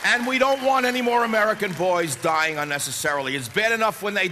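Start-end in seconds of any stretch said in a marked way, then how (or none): 0.1-2.2 rising shout. Real, not acted. Rally speech, repeating demand louder.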